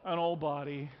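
loud, slow, leading the room; loud call and response. Shown as a demonstration. Preacher leading the congregation in a loud slow creed. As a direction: pull the congregation along, word by word. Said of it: "Say it with me".

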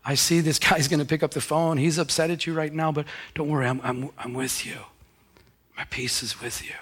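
reassuring God sinking into a whisper. Retold or imitated. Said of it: "And God was like".

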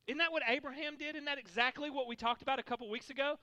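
ordinary talk, nothing marked

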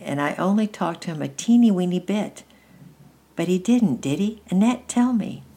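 put-on high, loud, insistent child; eager little boy. A narrator's reading. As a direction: plead for confirmation, lifting each tag question. Child figure in the story.

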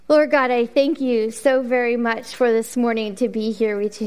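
earnest spoken prayer. Acted. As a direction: pray over the congregation. Leads congregation in prayer.

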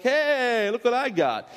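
playfully proud show-and-tell; mock showing off. Acts out showing off beads.

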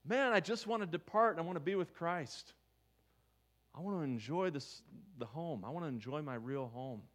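yearning, softening toward the end; longing Paul. Retold or imitated. Paul longing to be with Christ, yearning voice. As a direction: ache for home gently. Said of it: "Magnify that".

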